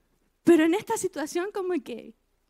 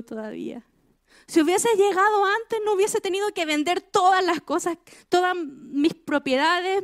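pleading complaint; 4 semitones higher, 3 dB louder than usual. Retold or imitated. Lamenting complaint voiced to God.

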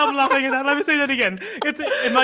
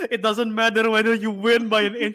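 laughing quote; 4 dB louder than usual. Retold or imitated. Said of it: "he says the quote".

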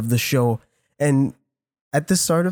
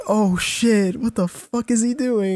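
mock alarm; 8 semitones higher than usual. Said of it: "And I was like".

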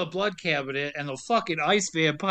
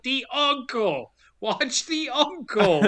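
Brimley voice; 6 semitones higher, slower than usual. Retold or imitated. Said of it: "And he's like".

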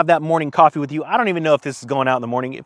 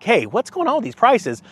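mildly ticked, higher-pitched mock complaint; 6 semitones higher than usual. Imagining people protesting about prices, mock ticked off. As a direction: act a touch indignant, pitch up. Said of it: "They're not, like, getting ticked".

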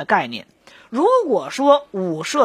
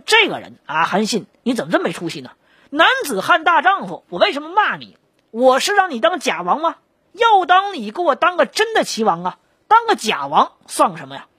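hammed-up angry scolding, pitch jumping higher on some lines; mock scolding; 4 semitones higher than usual. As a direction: play the king berating Han Xin with theatrical outrage. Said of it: "当即就骂了".

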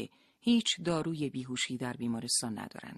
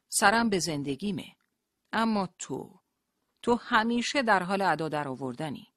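menacing taunt; 6 semitones higher, 5 dB louder than usual. Acted. Rashid taunts and threatens Leila.

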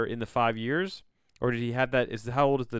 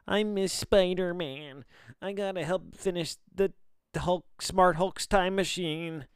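high, slow, mock-wistful hero voice; mock Stark; 9 semitones higher, 4 dB louder, slower than usual. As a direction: ham it up like a moody hero pining, much higher and slower. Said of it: "he just has a vision".

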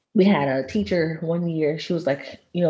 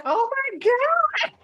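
put-on swooning girls; much slower than usual. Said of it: "girls were like".

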